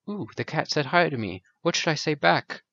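a gasp, then wide-eyed pretend delight; excited beetle gasp. The beetle, greeted by the cat, gasps with mock delight. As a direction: play the little beetle thrilled to be greeted.

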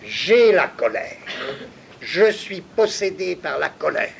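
hammed-up angry outburst; mock angry father. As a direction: declare it as if overtaken by anger. Lecturer acts out the angry father.

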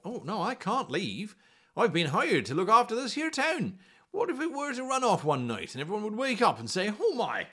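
put-on earnest young guard refusing to leave his post; Alad the guard. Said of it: "Alad is not going to volunteer".

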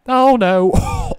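loud, high yell of dismay; real shout of dismay. Real, not acted. Gamer yelling as his wrestler leaps off ladder, loud and high. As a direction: cry out as the jump goes wrong. Big fall in the game.

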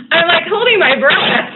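giggling through the words; nervous giggle while watching the trade; laughing. Real, not acted.

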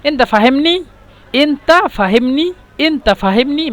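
rising question, এনতা ফাহেমনি lifted at the end; asking check. Retold or imitated. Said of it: "তারপর বলে".

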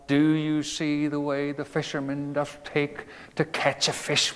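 put-on old-fashioned verse recital, rising grandly; recited verse. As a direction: declaim it like a remembered poem. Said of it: "I recall the preface to one".

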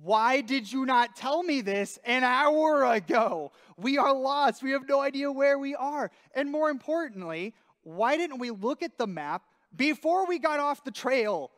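frustrated. Retold or imitated. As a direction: vent at the friend. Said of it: "a little frustrated".

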